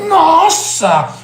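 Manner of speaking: high, melodic cry of wonder; hammed-up awe, imitating an impassioned speaker; Clóvis de Barros. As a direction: exclaim it with theatrical passion. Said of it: "Ele fala".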